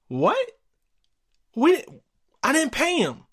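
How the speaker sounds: shocked dad. Retold or imitated. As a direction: gasp it like a father caught off guard. Dad learns money lost.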